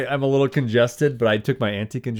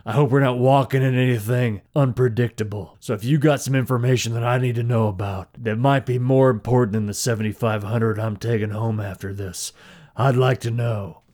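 Tina voice. Acted. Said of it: "That's more Tina".

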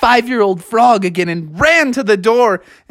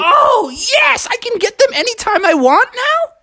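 tag. Acted. Froggy rejoices at gift.

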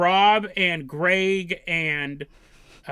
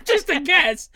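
laughing sarcastic; 7 semitones higher, 3 dB louder than usual. Real, not acted. Sarcastic aside.

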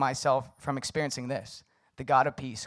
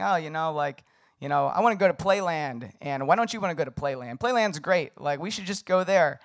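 short with her; 2 semitones higher, 4 dB louder than usual. Retold or imitated. Husband pushing his wife toward Playland, mildly short. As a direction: press your case impatiently, lightly acted. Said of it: "I was being kinda short with her".

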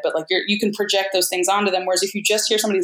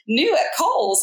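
bright upspeak ad read; Valley Girl voice; 4 semitones higher, slower than usual. Shown as a demonstration. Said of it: "sounds even more like a Valley Girl".

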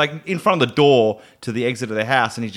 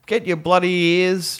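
announcer voice; 5 semitones higher, slower than usual. Acted. Hammed announcer plug.

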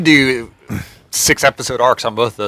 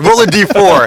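GM calling out roll; 7 semitones higher, 7 dB louder than usual. Retold or imitated. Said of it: "I'm like".

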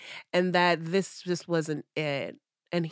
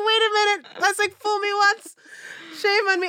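loud, high fed-up outrage; retold anger at the ex, loud and high; 7 dB louder than usual. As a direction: call him out at full volume.

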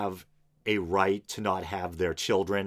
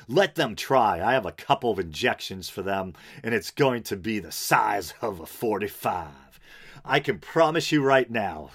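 a hammed-up, vaguely Southern preacher accent, a bit louder; slipped-in accent; 3 dB louder than usual. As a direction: play the pastor with a put-on preacher accent. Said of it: "that horrible accent I slipped into".

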